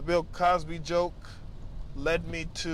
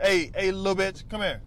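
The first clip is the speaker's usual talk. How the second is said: playful insult; 2 semitones higher than usual. Shown as a demonstration.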